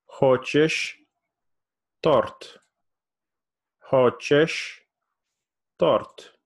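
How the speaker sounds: торт lifted at the end of Хочешь торт; rising question. Shown as a demonstration. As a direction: raise the voice on торт. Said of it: "I kinda raise my voice at the end".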